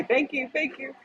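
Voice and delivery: mock teasing man. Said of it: "He'll say".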